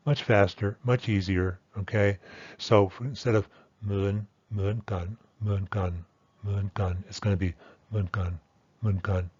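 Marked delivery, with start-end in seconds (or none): 4.5-8.4 "mun kan" with a short simple tone; casual fast Thai "mun kan"; reduced Thai tone. Shown as a demonstration. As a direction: say "mun kan" quick and flat-toned. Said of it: "that second pronunciation is much easier and much faster".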